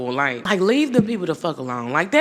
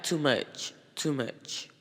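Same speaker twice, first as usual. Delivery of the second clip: a quiet, understated "too much"; soft mock protest; 3 semitones lower, 9 dB quieter, slower than usual. Imitating the girlfriend's soft protest, quietly. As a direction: murmur it gently, fading. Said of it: "she was like".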